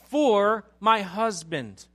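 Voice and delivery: loud, slow, weighty plea; impassioned pleading. Retold or imitated. Abigail offering herself to David for her husband, loudly pleading. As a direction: plead at full preaching volume, drawing out the words. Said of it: "She's pleading for mercy".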